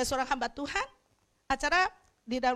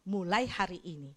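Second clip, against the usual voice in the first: soft voice of God; 9 semitones lower, 7 dB quieter than usual. Retold or imitated. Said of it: "Dan Tuhan ngomong".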